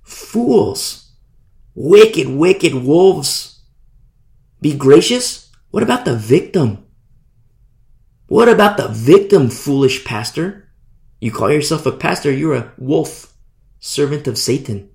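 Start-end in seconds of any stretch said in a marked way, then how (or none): 0.0-6.9 sharp outburst, spitting the words; angry rebuke. Real, not acted. Preacher condemning false pastors, angry rebuke. 8.3-13.3 loud accusing question; indignant rebuke. Real, not acted. Preacher confronting the foolish pastor, indignant rebuke.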